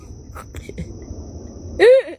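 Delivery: high airy laugh, pushed out unvoiced; breathy high laugh. Real, not acted. After missing the whole concert, airy high laugh. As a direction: laughs it off in disbelief.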